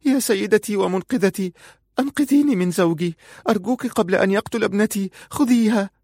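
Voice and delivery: high, frantic begging; a mother crying out to be rescued; desperate plea for help. Acted. Aziza begging Farun to save her daughter, high and frantic. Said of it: "قالت في صوت مستغيث".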